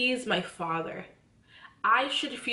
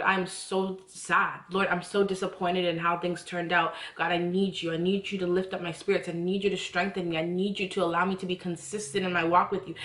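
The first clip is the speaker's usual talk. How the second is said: heartfelt prayer; 2 semitones lower than usual. Acted. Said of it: "you need to say".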